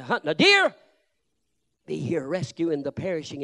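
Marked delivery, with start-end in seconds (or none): 0.0-0.7 loud word broken by a laugh; amused shout; laughing while preaching. Real, not acted. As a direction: let the laugh spill into it. Laughing through the line.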